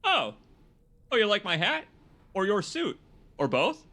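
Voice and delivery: high, bright, pleased; delighted surprise. Real, not acted. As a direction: act flattered and thrilled. Doll compliments his look.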